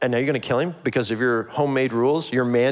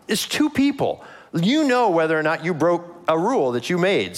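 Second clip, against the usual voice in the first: high, incredulous disbelief; you can't believe how obvious it is; exasperated; 4 semitones higher than usual. Real, not acted. Preacher to congregation about Saul, high incredulous exasperation.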